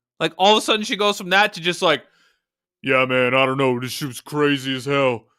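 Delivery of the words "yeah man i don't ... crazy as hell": voice dropped several octaves, deep. Retelling how her voice suddenly changed, imitate her much deeper voice. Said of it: "her voice dropped like four octaves".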